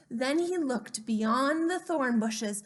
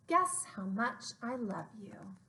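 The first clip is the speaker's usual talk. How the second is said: whispered title; 6 dB quieter than usual. Acted. Librarian whispers the book title to children, hushed. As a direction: breathe the title in a hush.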